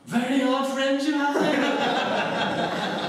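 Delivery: high, slow, unruffled posh statesman's voice; dry, measured put-on aristocratic reply; Enoch Powell impression. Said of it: "He said".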